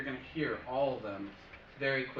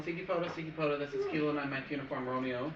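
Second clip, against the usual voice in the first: radio call demo. Shown as a demonstration. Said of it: "so I'm just calling".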